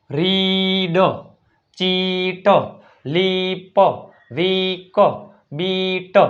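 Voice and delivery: રીડ, ચીટ, લીપ, વીક, બીટ one by one with an "ee" vowel; "ee" vowel examples. Shown as a demonstration. Teacher giving EA examples, "ee" vowel. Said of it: "પણ રસવાઈ ઈ".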